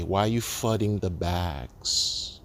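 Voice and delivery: slow, drawn-out mock complaint; mocking critics. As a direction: stretch it out like a whining accuser. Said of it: "same way they will say".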